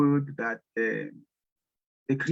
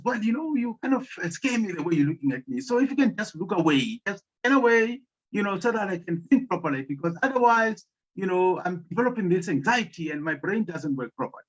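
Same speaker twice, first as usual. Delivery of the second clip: higher, anxious woman's voice; woman asking the lion to turn away, higher and anxious; nervous woman pleading; 4 semitones higher than usual. Acted. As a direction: beg the lion to look away.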